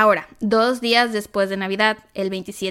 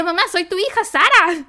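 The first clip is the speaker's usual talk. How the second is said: insisting; 8 semitones higher, 5 dB louder than usual. Retold or imitated. Insisting to mom on phone.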